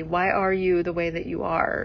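disdainful Michael Scott. Retold or imitated. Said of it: "an element of disdain in his voice".

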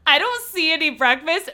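David voice. Retold or imitated. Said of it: "And David's like".

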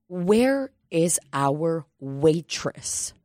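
slow, high, fed-up little grandpa; grumpy old man kid. Retold or imitated. Retelling the kid impatient for the waitress, slow high grumpy whine. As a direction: sigh then whine like a tiny grumpy elder. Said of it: "What's up, Grandpa?".

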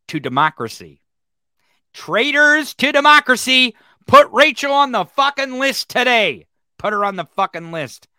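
climbing into a full furious yell; furious shout. Real, not acted. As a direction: call her out as a traitor. Shouting at Rachel, traitor.

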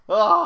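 loud, high "ugh"; exasperated groan. Real, not acted. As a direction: groan it out after the effort. Groans after long tongue twister.

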